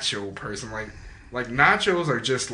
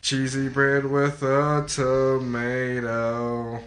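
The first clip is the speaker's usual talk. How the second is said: commercial voice; much slower than usual. Retold or imitated. Quoting an old TV commercial.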